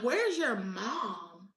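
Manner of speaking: mock vendor, drawn out slowly; lightly voiced vendor asking slowly for her mom; a hint of a puzzled vendor on a call; slow insistent vendor quote. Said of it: "He's like".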